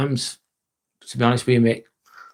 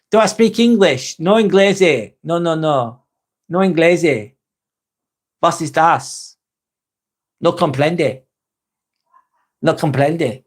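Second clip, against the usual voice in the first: mock clueless foreigner; 2 semitones higher than usual. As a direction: play dumb like a lost tourist who speaks no English. Mock foreign tourist routine.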